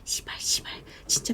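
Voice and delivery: hushed, whispered swearing; whispering. Retold or imitated. Hiding inside with a friend, whispering. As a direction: swear under your breath in disbelief. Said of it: "막 속삭이면서".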